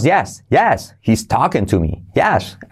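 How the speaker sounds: "yes" up, "he's talking to me" falling; affirming tune; yes cue. Shown as a demonstration. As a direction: lean on "yes", then fall. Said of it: "Lo mismo en afirmativo".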